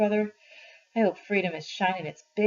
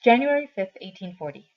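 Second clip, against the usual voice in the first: reading the date heading aloud; announced date; 6 dB louder than usual. Acted. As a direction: call out the letter date. Letter date read out.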